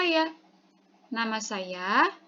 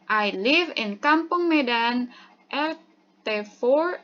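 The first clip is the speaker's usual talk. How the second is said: model reading. Shown as a demonstration. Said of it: "Kita contoh lagi nih".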